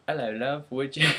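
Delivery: lightly put-on British accent; playful mock British accent. Shown as a demonstration. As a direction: try out a cheeky British greeting accent. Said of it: "Yeah, British, I'll be like".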